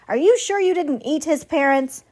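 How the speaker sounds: a lightly squawky accusation; suspicious goose. A narrator's reading. Goose suspecting the robot of eating the parents, suspicious.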